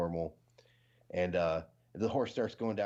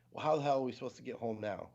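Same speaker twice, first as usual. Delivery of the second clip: fast, exasperated complaint; annoyed wife; 3 semitones higher, faster than usual. Retold or imitated. Wife scolding her husband after the horse dies, mock exasperated. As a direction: rush it out like a fed-up wife. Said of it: "And then the wife goes".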